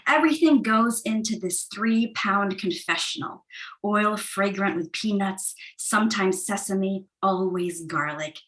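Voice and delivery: measured, even poem reading; calm, deliberate poem recital; poetry reading. Acted. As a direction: read it like a spoken-word poem at a reading. Poet reads second poem.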